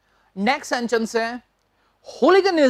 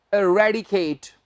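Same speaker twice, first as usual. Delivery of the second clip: slow, clear word; 3 semitones lower, much slower than usual. Shown as a demonstration. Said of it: "very important word".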